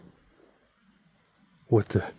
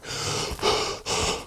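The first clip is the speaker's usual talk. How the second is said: breathless sigh after stairs; long winded breath out; heavy exhale; 7 dB quieter than usual. Real, not acted. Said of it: "I'm completely out of breath".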